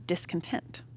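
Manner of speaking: a soft whisper, barely voiced; dreading whisper. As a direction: let the word slip out as a whisper. Naming the feeling she dreads.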